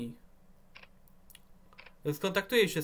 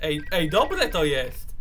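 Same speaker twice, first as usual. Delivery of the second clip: louder, slow drawn-out delight; excited praise; 6 dB louder, much slower than usual. Real, not acted. Streamer reacting to eerie ambience, slow thrilled praise. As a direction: savor it, thrilled.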